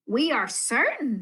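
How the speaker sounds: shouted. Acted. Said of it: "they shouted".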